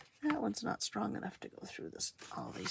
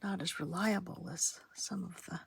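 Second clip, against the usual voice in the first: whispering; 2 semitones lower than usual. Real, not acted.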